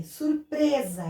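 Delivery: "Surpresa" slowly, stretching PRE; "sur-PRE-sa", drawn out; strong syllable shown. Shown as a demonstration. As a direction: sound out "Surpresa" with weight on PRE. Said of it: "a sílaba mais forte".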